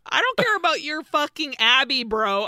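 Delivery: a cheap-seats guy telling the box to shut up; mock annoyed heckler. Annoyed audience member heckling.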